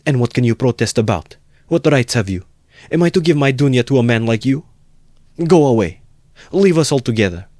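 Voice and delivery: high, indignant mother's challenge; indignant volley of questions and orders; heated protest. A narrator's reading. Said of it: "intervened hotly".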